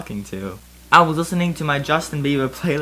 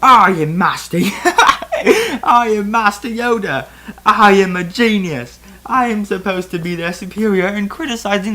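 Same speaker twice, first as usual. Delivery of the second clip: higher, louder indignant rant; offended outburst, pitched up; mild shriek; 7 semitones higher, 4 dB louder than usual. Acted. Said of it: "I shrieked".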